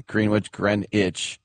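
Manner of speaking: Greenwich as green-witch, then as gren-itch; spelled versus spoken. Shown as a demonstration. Host comparing English place names, Greenwich as written then as spoken. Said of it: "we do hit that C H".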